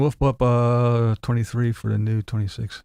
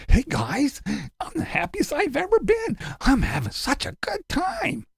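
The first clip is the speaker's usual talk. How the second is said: high fake-cheerful vlogger voice; higher, mock-upbeat camera greeting; 12 semitones higher, slower than usual. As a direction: ham up the overly happy YouTuber intro. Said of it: "turning that camera on and going".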